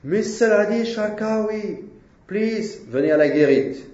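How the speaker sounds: high, carrying call of a prison guard; a guard summoning an inmate by name, calling out. Retold or imitated. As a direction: call his name across the wing like a guard. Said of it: "called me".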